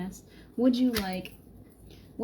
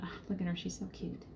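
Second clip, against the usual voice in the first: God doting on her; faster than usual. Retold or imitated. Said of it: "I can see God up there going".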